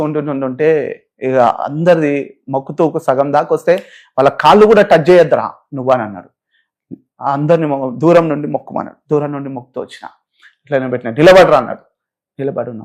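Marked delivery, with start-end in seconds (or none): 4.2-5.9 louder, harsh retold command; retold stern order. Judge forbidding him to touch their feet, louder harsh order. 11.1-11.6 a loud, sharp "stand up"; retold barked order. Judge ordering the kneeling man to stand, loud barked order.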